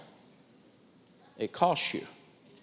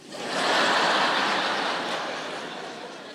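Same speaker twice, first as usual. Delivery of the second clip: laughing. Real, not acted. Laugh after retort.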